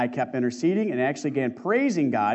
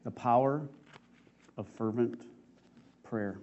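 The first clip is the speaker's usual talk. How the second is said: solemn; 4 semitones lower, 8 dB quieter than usual. Acted. Sermon's solemn closing line.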